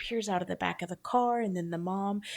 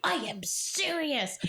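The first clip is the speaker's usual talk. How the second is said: slow, higher mock-posh insistence; posh accent; 6 semitones higher, slower than usual. Rich friend insists to doubtful friends, slow imitated posh accent. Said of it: "he had this very, like, posh, like, accent".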